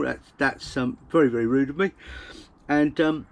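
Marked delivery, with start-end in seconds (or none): 0.0-1.9 talking round a bite; words through a mouthful; mouth full. Real, not acted. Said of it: "eat with my mouth full".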